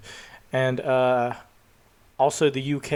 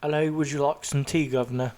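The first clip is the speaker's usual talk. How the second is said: mock British. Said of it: "You want a cup of tea".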